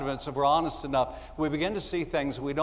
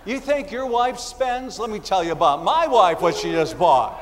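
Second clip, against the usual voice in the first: self-absorbed complaining. Retold or imitated. Self-absorbed person voiced mockingly.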